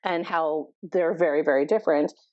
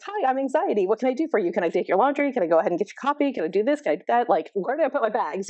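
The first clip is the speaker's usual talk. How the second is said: higher, rushed imitation of a frazzled eager helper; frantic; 4 semitones higher, faster than usual. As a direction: rattle off the offers, all nervous eagerness. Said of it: "frantic and is like".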